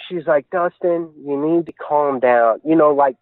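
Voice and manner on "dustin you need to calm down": slow, talking down to him; mild mock condescension; condescending. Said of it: "talking to me like I'm, I'm stupid".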